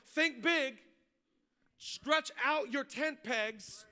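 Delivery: slow, deliberate scripture reading. Acted. Pastor reading Isaiah to the church, slowly. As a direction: lay each phrase down slowly.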